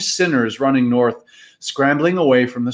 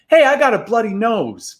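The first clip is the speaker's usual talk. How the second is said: happy gasp; 9 semitones higher, 4 dB louder than usual. Acted. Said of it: "gasped Tom, happily".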